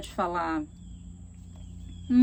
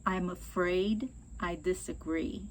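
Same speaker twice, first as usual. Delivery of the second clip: polite; 4 semitones lower, 5 dB quieter, slower than usual. Shown as a demonstration. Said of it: "De novo".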